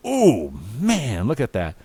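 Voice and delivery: ogle her with a sliding ooh; leering. Acted. Will ogling the robot maid, leering.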